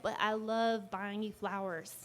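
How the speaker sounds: put-on slow, half-hearted drawling country accent, slightly effeminate; badly faked King of the Hill accent, drawn out; attempted boyfriend's accent. Boyfriend protesting he loves buying flowers, badly imitated accent. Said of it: "I can't do his accent".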